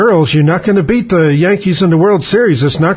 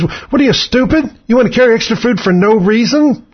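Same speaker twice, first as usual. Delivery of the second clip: mock naive planner. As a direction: play the dopey optimist who thinks it'll all work out. Mocking naive military planners.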